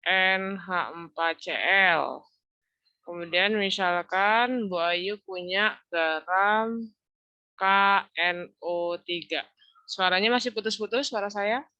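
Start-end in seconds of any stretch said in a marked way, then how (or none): 0.1-9.4 breaking up audio. Real, not acted. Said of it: "Kalau udah di ... agak putus-putus".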